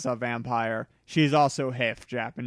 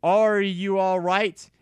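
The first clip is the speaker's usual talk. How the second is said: loud, higher worried calls; 6 semitones higher, 5 dB louder than usual. Acted. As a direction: call her name in alarm. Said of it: "asked Draco in a worried voice".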